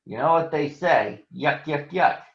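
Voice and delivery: mock yuck-yuck chuckle; chuckling. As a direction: laugh at your own joke. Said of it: "chuckling at his own joke".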